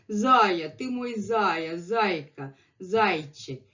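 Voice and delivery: imitating fond pet-name calling; affectionate. Sasha calling Messi his bunny, imitated affection. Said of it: "affectionately at him, saying".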